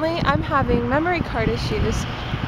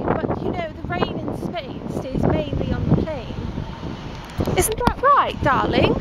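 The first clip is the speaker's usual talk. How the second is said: mock British, pitched up and lilting; put-on British accent. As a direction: play a dainty British lady or gent. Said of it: "I'm going to vlog in a British".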